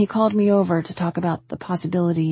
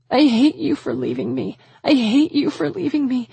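high, tearful accusation, climbing higher; anguished outburst; 8 semitones higher, 4 dB louder than usual. A narrator's reading. Woman grieving the one who left, crying out. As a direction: cry it out, more desperate each time. Grief outburst at absent husband.

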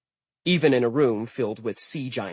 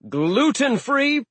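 slow, high bewildered question; baffled by the request; puzzled; 14 semitones higher, 5 dB louder, much slower than usual. Acted. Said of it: "Aegir asked".

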